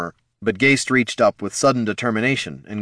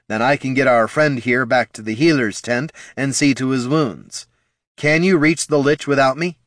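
higher, louder urgent plea; 6 semitones higher, 4 dB louder than usual. A narrator's reading. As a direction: press the point loudly. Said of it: "Heraldon repeated loudly".

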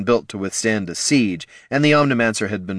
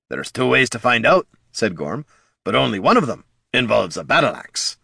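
gruff dwarf voice; 3 semitones higher than usual. Acted. Gorm threatens.

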